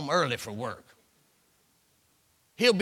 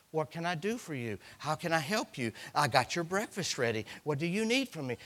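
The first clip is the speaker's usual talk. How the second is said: softer, eager-to-please voice; sweet servant wife; 7 dB quieter than usual. Retold or imitated. Wife serving her new husband, soft and eager. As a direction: offer it gently and softly.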